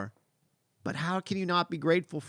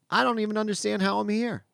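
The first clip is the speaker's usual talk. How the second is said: raised, wondering self-quote; mild amazement; 4 semitones higher than usual. Retold or imitated. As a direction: marvel at it, pitched up a little. Retells his own amazement.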